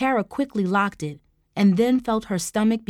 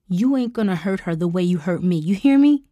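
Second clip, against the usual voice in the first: angry confrontation; 4 dB louder than usual. Acted. Confronting her abuser.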